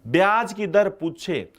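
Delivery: slow, deliberate drilling of the rule; slow emphatic teaching. Shown as a demonstration. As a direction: spell out the rule slowly so it sticks. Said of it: "आपके दिमाग में बिठा लो".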